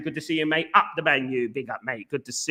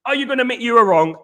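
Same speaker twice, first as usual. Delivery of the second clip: higher-pitched imitation of nagging critics; mocking, raised-pitch questions; mock accusers; 5 semitones higher, 4 dB louder, faster than usual. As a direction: mimic rival fans demanding an apology, pitched up. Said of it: "coming out now at the woodwork and saying".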